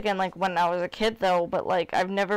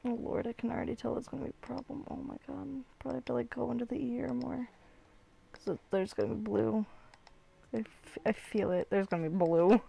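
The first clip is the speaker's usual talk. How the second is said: hiccuping and burping while talking; 3 semitones higher, 10 dB quieter than usual. Real, not acted. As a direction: talk through hiccups and burps. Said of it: "I'm, like, hiccuping and burping".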